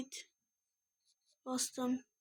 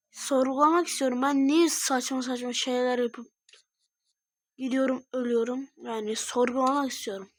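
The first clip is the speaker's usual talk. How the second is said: exasperated rant; 3 dB louder than usual. Real, not acted. Ranting about own mistakes.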